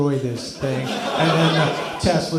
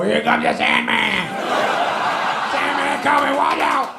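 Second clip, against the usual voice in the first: mock warning shout; 10 semitones higher than usual. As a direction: yell it out the window like a town crier. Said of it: "and go".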